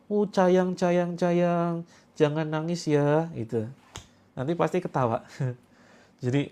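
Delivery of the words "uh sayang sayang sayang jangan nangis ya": put-on soothing baby talk to a crying wife, lightly higher; cooing husband. Husband comforting his weepy pregnant wife, mock baby talk. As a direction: coo at her like comforting a baby. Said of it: "Ya, dielus-elus, Kak, istrinya".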